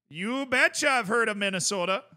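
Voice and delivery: light Minnesota accent with a rising "betcha"; playful upper-Midwest Minnesota accent, you betcha style. Shown as a demonstration. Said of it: "I get my Minnesota accent going".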